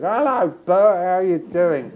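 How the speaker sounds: high, loud broad Cockney greeting; chirpy broad Cockney hello; Cockney accent. Retold or imitated. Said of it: "spoke in broad Cockney accents and said".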